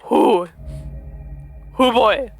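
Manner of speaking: real giddy reaction; excited outburst. Real, not acted. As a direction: blurt out in excitement.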